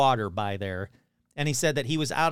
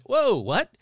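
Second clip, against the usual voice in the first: high startled whoa, a bit louder; retold surprise; 8 semitones higher, 4 dB louder than usual. Telling a stranger about his own shock at the Sasquatch news, higher and startled. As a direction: jump up in pitch at the news.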